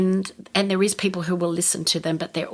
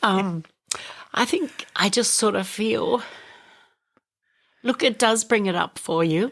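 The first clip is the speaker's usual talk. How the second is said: tearful voice on the edge of tears; 2 semitones higher than usual. Guest answering Evelyn about telling their story: tearful voice. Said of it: "I think I'm going to cry".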